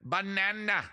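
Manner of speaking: high, squeaky Minion saying banana; lightly done Minion impression. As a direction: chirp it like a cartoon Minion. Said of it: "The Minions, what are they like?".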